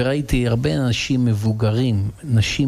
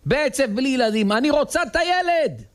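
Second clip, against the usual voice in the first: pleading dying wife. Acted. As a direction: beg for the child with everything.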